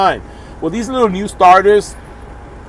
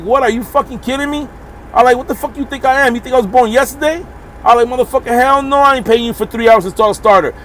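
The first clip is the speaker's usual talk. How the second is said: high-pitched incredulous outrage; outraged retort; 7 semitones higher than usual. Retold or imitated. Trucker refusing the mechanic's three-hour bill, high outraged disbelief. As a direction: let the disbelief explode in a higher voice.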